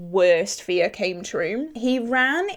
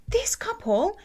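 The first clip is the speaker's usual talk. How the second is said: whispered aside; 11 semitones higher than usual. Real, not acted. Whispered aside before couple's reply.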